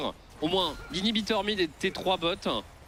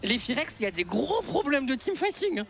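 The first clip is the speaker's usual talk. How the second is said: high, loud teamfight call; esports caster; 8 semitones higher, 3 dB louder than usual. Real, not acted. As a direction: hype the teamfight.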